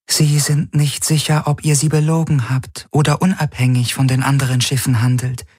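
a calm, distant alien intelligence; alien Helix voice. A narrator's reading.

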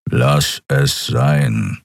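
low, slow growl. Acted. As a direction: grumble it deep and slow. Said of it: "knurrte er".

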